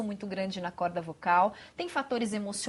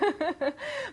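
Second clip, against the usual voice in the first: laugh; 9 semitones higher than usual. Real, not acted. Laughs at the joke.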